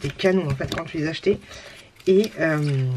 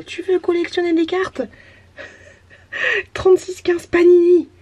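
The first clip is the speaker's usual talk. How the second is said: ad voice; 10 semitones higher, 5 dB louder than usual. Pretend. Reading old ad aloud.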